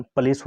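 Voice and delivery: पुलिस as puh-LEES; actual pronunciation. Shown as a demonstration. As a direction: say पुलिस with no 'oo', a neutral first vowel. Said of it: "इसका actual pronunciation". (पुलिस का सही उच्चारण, 'पलीस')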